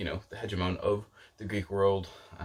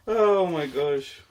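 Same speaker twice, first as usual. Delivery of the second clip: drawn out, higher and louder, laughing; giddy oh my gosh; 7 semitones higher, 6 dB louder, much slower than usual. Real, not acted. Vlogger cracking up at her own book rant, slow and giddy. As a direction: stretch it out, half laughing at yourself.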